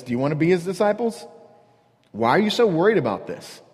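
mock-innocent needling question; sarcastic. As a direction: pick at them with feigned curiosity. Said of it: "blatant sarcasm".

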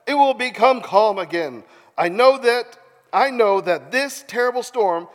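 animated Bible storytelling; theatrical narrator; dramatic scripture reading. A narrator's reading. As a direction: voice the story with urgency. Reads scripture aloud dramatically.

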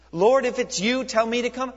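high, loud eager request; eager plea. Acted. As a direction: call out boldly to the Lord. Voicing Peter's request again.

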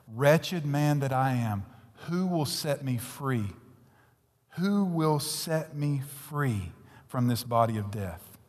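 slow, solemn reading; scripture recitation. Acted. Preacher reciting Romans seven to the congregation, slow solemn. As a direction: draw each word out like a prayer.

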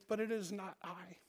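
soft, understated answer to a caller; quiet reply. Retold or imitated. Augustine looks back at his ex-lover, answering quietly.

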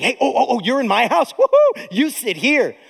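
a hammed-up eager host crying woohoo; fawning host. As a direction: fawn over the rich guest. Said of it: "they're saying".

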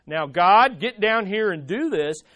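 low, firm mock demand, hard on "God"; measured command that drops away at the end. Shown as a demonstration. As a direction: order it like someone in charge. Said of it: "from a position of demand".

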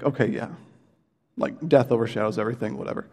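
mock casual brush-off; dismissive shrug. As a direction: toss off death overshadows everything like it's no big deal. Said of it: "think, like".

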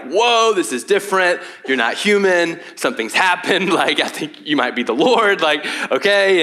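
amazed Peter. Retold or imitated. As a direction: play Peter stunned by the miracle.

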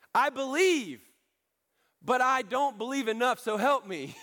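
high, impassioned plea; acted desperate appeal; crying out. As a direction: confess it as an urgent cry. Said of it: "cried out and said".

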